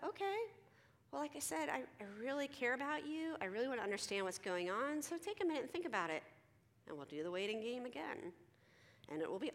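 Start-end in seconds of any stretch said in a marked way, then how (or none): 0.1-6.2 high, gentle coaxing voice; soothing, lifted counselor voice; patient reassurance. Retold or imitated. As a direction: answer sullenness with light, high-pitched kindness. Counselor patiently coaxing sullen teen.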